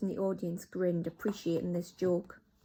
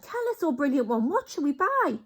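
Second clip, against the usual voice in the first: higher, eager begging; fawning witches; 8 semitones higher, 6 dB louder than usual. Acted. Witches beg the Grand High Witch, high fawning. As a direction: flatter and beg.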